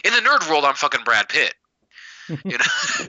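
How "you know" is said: mock squeak. Joking high squeak.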